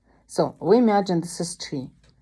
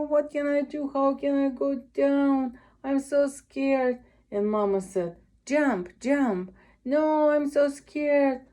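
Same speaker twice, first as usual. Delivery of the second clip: put-on baby cat voice; 3 semitones higher than usual. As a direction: play a frightened little kitten stuck up a tree. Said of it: "imagine this is baby cat".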